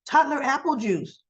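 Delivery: a hint of a giddy old man, slowly savoring it; mock Tucker gushing. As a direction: gush over the juice in a teasing imitation of Tucker. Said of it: "I'm surprised he didn't say".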